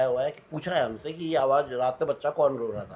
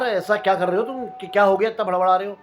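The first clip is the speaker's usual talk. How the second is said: irritated; 3 semitones higher, 6 dB louder than usual. Retold or imitated. Annoyed at watchman's banging.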